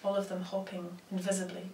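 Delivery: measured recital with long pauses between phrases; poetry reading. Acted. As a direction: let each image land, then pause. Reads own poems aloud.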